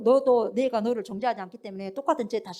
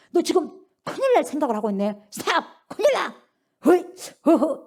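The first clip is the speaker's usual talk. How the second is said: high, punched warning shouts; urgent warning; 3 semitones higher, 4 dB louder than usual. Acted. Spirit warning someone of danger, urgent high shouts. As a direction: halt them with sudden high calls. Spirit acted restraining a sinner.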